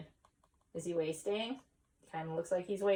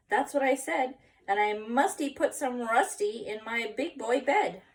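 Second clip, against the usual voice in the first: put-on bright, eager kid voice, a bit louder; excited little boy voice; 4 dB louder than usual. Skippy tells himself his plan, eager kid voice. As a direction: play the kitten boy bursting with plans.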